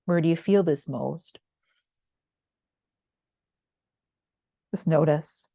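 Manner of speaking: unhurried yoga body-scan voice, long pauses between phrases; calm, spacious meditation cueing; guided meditation. Real, not acted.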